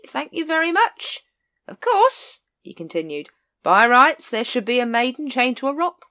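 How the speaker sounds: high, loud, wheedling vendor voice; a chummy seller always after a sale; sly street hawker. Acted. Cut Me Own Throat chatting up Captain Vimes, high and wheedling.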